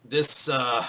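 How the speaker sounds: lightly gruff voice addressing a crowd; mildly gruff town speech; gruff mayor. Acted. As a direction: speak as a weathered farmer running a meeting. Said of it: "he has, like, a very gruff voice".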